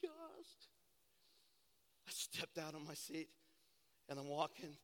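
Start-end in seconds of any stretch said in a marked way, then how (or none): 0.0-0.7 slow, higher, hushed wonder; awed gasp. Retold or imitated. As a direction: breathe it out in awe. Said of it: "I was like".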